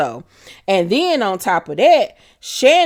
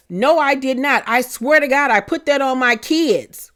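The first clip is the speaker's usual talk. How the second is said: mock indignant denial; 5 semitones higher than usual. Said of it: "had the nerve to say".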